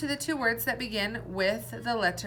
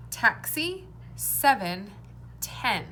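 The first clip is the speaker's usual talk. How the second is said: loud, slow word list; sounds clearly shown; 3 dB louder, much slower than usual. Shown as a demonstration. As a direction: say each word clearly for the class. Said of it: "Which one is different?".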